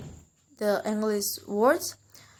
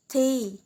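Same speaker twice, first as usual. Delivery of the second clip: a slightly raised, separate "tay"; stressed first syllable; 3 semitones higher than usual. Shown as a demonstration. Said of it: "in the first syllable".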